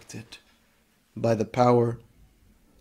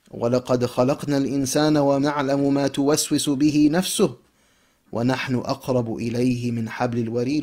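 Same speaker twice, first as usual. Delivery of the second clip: quick, flowing recitation of the verse in Arabic; Quran recitation; much faster than usual. Acted. Preacher quoting the verse to the congregation, recited rapidly. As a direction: recite the verse swiftly and smoothly.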